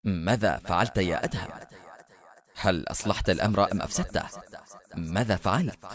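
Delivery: low, soft voice with echo; frightening inner voice. A narrator's reading. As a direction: let an ominous inner voice question quietly. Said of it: "هتف هاتف مخيف".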